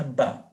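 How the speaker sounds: "ba" with an open a; bet with patah as ba. Shown as a demonstration. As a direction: say "ba" with a clear open a. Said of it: "entonces suena". ("ba" con a abierta)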